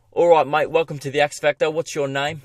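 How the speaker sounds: a hammed-up, poor English accent as a TV judge; bad English accent. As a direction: do a terrible English accent, jovial. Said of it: "That's the worst English accent".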